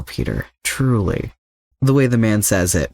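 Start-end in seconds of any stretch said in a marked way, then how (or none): 0.0-1.3 warm. A narrator's reading. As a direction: lean in gently on truly, slowly. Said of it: "the warmth in his tone unsettles Peter".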